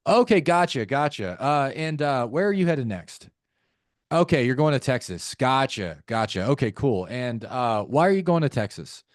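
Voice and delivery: brisk, perfunctory acknowledgement, then the next question; weird robotic interviewer. Shown as a demonstration. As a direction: rattle off gotchas like taking notes on a form. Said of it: "No wonder it sounds weird".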